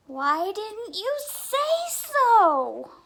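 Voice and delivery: high, loud, slow surprised cry; surprised sheep. Acted. Sheep learns her wool grows back, loud surprised question. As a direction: sound amazed and relieved.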